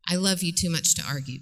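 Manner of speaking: low, unhurried sincerity; calm, sincere. Shown as a demonstration. Counselor modelling the line for parents, calm and sincere. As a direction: say it evenly, without sarcasm. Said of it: "Not with sarcasm".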